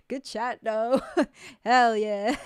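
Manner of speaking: words broken up by giggles; laughing. Real, not acted. Streamer learning chat can't hear her, laughing it off. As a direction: laugh your way through it. Laughs at late word of quiet audio.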